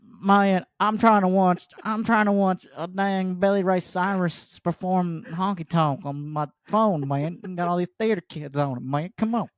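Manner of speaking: exasperated, drawling Southern gripe; thick Southern accent. Acted. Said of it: "I can't stop doing this accent".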